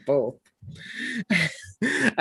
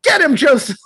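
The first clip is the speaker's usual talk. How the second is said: Mary cheering; 9 semitones higher, 6 dB louder than usual. Retold or imitated.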